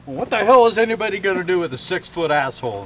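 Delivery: hammed-up exasperated question; mock incredulity. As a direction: fire off the question in mock disbelief. Officer baffled in a told joke.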